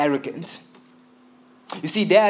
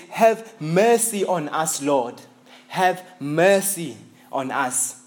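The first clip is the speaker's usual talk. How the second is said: pleading cry; slower than usual. Shown as a demonstration. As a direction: cry out for mercy with desperation. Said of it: "he calls twice as if to emphasize the desperation".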